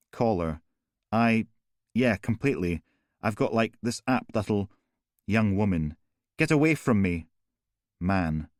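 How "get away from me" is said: high, loud recoil from him; screaming at the killer to stay back; terrified shout. Acted. Young woman facing the killer.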